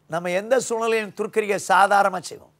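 normal talking voice

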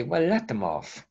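a lighter, near-plain repeat of "Well, let them off"; understated "Well, let them off" with a slight lift; mild dismissive echo. Retold or imitated. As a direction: echo the bishops only lightly. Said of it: "And you say".

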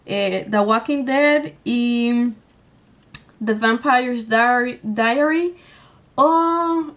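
ordinary talk, nothing marked

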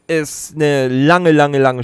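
lange, lange, lange stretched very slowly; drawn-out emphasis. Real, not acted. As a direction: drag out each "lange" to show how long it's been. Lange Spielzeit betont gedehnt. (jedes "lange" stark gedehnt und betont)

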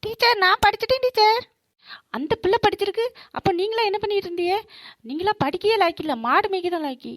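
brisk, stern teacher telling off the class; a lightly voiced angry teacher; teacher scolding students who did not study.

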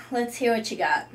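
usual speaking voice

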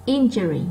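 IN in "injury" picked out, then falling; stressed first syllable. Shown as a demonstration. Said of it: "nó to hơn những âm còn lại". (nhấn mạnh âm một của "injury")

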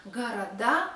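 города as "ga-ra-DA" with clear d; voiced d. Shown as a demonstration. Teacher showing the plural, города with clear d. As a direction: land on a stressed voiced "DA" in города. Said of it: "we pronounce D".

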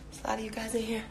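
a soft, unvoiced whisper. Real, not acted. Noticing how many viewers joined, whispered. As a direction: whisper it like a secret.

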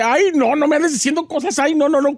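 lightly mimicked embarrassed refusal; imitated flustered protest. Daughter imitating blushing mother refusing suitors, flustered protest. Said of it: "se pone toda roja y se ríe y dice".

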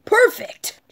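breathy whispered cheer. Acted. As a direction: whisper it excitedly. Whispered praise.

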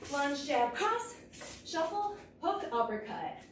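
calling strikes while punching; punching through the combo; hitting a punching bag. Real, not acted. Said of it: "I got my own footwork wrong".

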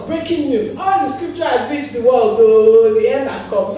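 mock news announcement. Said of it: "somebody will come and announce".

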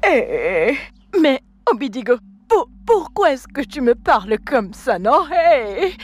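crying, hurt plea; tearful pleading. Acted. Rejected girlfriend pleading with her boyfriend, tearful. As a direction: beg him through tears.

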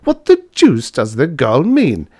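angry man's roar; furious demand. A narrator's reading. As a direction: burst out in baffled anger. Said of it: "roared von Hartmann furiously".

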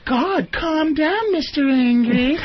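slow, sneering Mister Angry taunt; mocking dismissive girlfriend. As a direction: drag it out, belittling him. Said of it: "that disregarding".

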